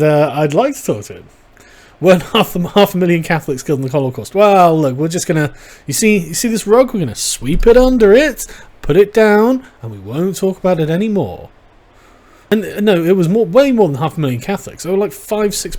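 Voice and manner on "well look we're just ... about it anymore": mock cover-up voice. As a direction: sweep it under the rug, playfully. Mocking the church covering up.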